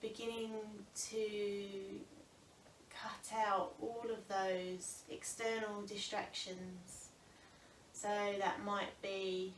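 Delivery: calm, unhurried breathing guidance with long pauses; yoga teacher settling a class into the breath; guided meditation. Real, not acted. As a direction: ease them gently into stillness, phrase by phrase. Leads seated breathing meditation.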